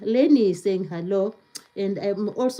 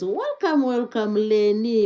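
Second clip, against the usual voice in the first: excited welcome. Real, not acted. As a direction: sing out a welcome to the viewer. Greeting a new viewer.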